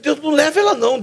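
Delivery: high desperate plea. Retold or imitated. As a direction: beg God not to take her. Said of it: "como eu fiquei revoltado".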